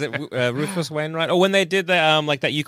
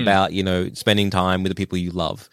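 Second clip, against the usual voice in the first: put-on old man Shrek voice; 5 semitones lower than usual. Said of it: "an old man Shrek voice".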